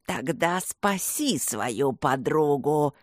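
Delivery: медленно, нечеловечески, с угрозой; растягивать слова, как потустороннее зло; демонический голос зла. Acted. (зло насмехается над мальчиком, медленно и жутко)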